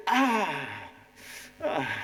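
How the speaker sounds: acted cry of impact; hammed-up "ah" of pain. Acts hitting the wall again.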